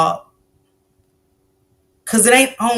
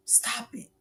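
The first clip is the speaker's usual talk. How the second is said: whisper; 17 dB quieter than usual. Retold or imitated. Voicing baby's plea softly.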